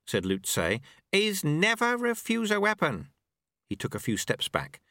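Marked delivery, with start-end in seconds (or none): 1.1-3.1 higher, gently mocking old master; a wry old sweeper teaching his apprentice; old monk Lu Tse. A narrator's reading. Old master speaks to the dojo monks, wry.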